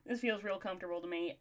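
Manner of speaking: easy, relaxed Texas southern accent. Shown as a demonstration. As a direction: slip into a comfortable southern accent. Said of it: "I can do a southern accent real well".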